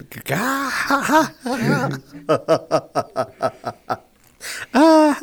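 high hammed-up moans; mock whimpering ahs, pitched high; mock pained groans.

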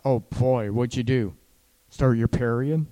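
a lightly voiced snide jab; mild mock accusation; mocking dig. Shown as a demonstration. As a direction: tease her like a careless partner. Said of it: "instead of".

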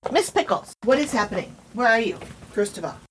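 high sing-song dog talk. Real, not acted. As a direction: coax the puppy sweetly. Calling to her dog.

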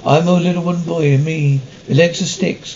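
lightly voiced puppet boy, a bit put-on; a half-hearted puppet voice for the crew; wooden boy voice. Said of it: "Do the wooden boy voice".

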